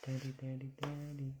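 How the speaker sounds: high, bright sing-song daddy; baby talk. Shown as a demonstration. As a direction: say it clearly for the baby to copy. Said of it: "Can you say dad?".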